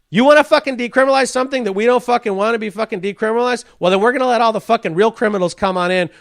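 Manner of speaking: loud, fast angry tirade; hammed-up menacing authority rant; mock furious government rant. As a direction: spit it out like an enraged official. Ranting as the government voice.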